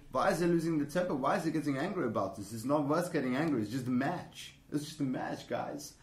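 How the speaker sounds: imitated German commentator's accent; mock-reasonable German-accented commentary; Michael Stich. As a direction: mimic a German pundit chiding. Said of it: "and he was saying".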